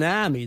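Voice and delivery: "army" with no R, like "ahmy"; dropped R. Shown as a demonstration. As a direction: drop the R in "army". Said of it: "they drop the R's".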